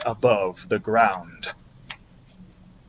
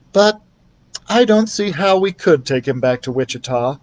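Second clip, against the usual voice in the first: sensibly; 2 semitones higher than usual. Acted. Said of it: "said Betty sensibly".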